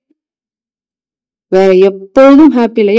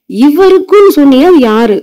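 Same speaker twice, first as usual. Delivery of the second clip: curious friend; 4 semitones higher than usual. Acted. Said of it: "அப்ப தோழி கேப்பா".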